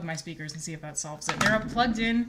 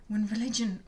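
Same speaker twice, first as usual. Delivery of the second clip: vampire voice; 3 semitones higher, 3 dB louder than usual. Acted. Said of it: "a vampire voice when I read it to you".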